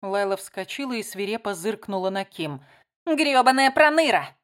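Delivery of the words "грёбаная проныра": loud angry curse; furious outburst. Acted. Layla rounds on Kim, cursing loudly in fury. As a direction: spit the insult out full force.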